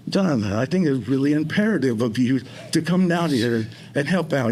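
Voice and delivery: lightly imitated colleague's voice; a hint of someone else's voice, urging; Tyrann. Man talking to himself as his colleague, lightly imitated voice. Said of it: "in your voice sometimes".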